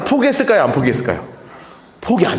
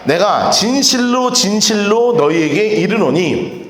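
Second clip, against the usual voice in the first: slow scripture reading; 3 semitones lower, slower than usual. Shown as a demonstration. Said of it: "우리 같이 한번 읽읍시다".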